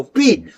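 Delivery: "पी" with a popped burst of air from closed lips; teacher pops "पी" for the class; P sound demo. Shown as a demonstration. Teacher showing students the P sound, lips popping. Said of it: "पेट से pressure बनता है".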